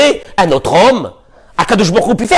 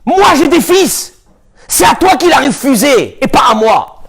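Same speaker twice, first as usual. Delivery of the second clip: harsh retort; 6 semitones higher than usual. Acted. Yaakov's harsh reply.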